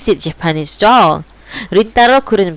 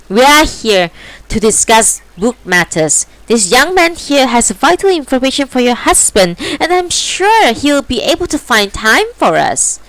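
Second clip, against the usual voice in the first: firm, higher cat voice; determined; 7 semitones higher than usual. Acted. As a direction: press the point with resolve. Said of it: "The determination of, in the tabby's voice".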